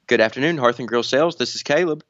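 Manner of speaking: polished business phone greeting; telephone voice. Shown as a demonstration. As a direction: answer like a friendly salesman. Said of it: "my telephone voice".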